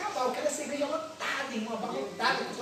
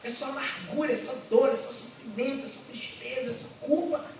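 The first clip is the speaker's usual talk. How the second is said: a hint of a fed-up husband griping; complaining husband; 3 semitones higher than usual. Husband complaining to the pastor, lightly voiced and weary. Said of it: "marido, e diga".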